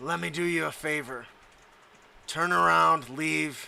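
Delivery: deep, resonant, echoing villain voice. A storyteller voices an armored villain speaking from inside his helmet, echoing and deep. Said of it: "echoing and deep".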